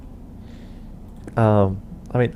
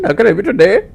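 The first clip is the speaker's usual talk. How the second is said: higher, louder call-centre greeting; put-on tech support voice; 9 semitones higher, 8 dB louder, much faster than usual. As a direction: chirp the standard helpdesk line. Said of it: "I actually wanna do voices".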